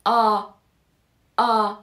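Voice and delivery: آ repeated as a pure "ah"; isolated آ, never shading to "e"; open Turkish A. Shown as a demonstration. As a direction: sound out آ, آ, each a separate open "ah".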